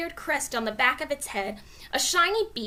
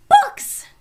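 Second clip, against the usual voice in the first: very high loud excited shout; 13 dB louder than usual. A narrator's reading. Annie shouting down from the treehouse window, excited shout. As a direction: yell it out the window. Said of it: "Annie shouted".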